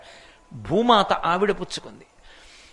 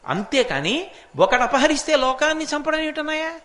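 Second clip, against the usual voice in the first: pleading rebuke; 3 semitones higher, 4 dB louder than usual. Acted. Lakshmana rebukes angry elder brother.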